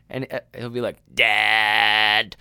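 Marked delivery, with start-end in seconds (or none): 1.1-2.2 loud, drawn-out, spooky creepy horror-movie voice. Retelling how the son calls from the stairs: imitating son's creepy horror-movie voice. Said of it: "he's got this thing where he does his voice".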